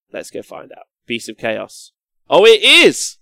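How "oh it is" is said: loud, high delighted discovery; happily surprised Oh, it is; surprised exclamation. Real, not acted. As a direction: gasp it out as you find it. Finds the FAQ.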